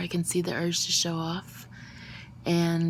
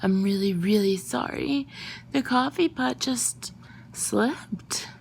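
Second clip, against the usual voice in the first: flustered apology; 4 semitones higher, slower than usual. Acted. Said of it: "in my most flustered voice".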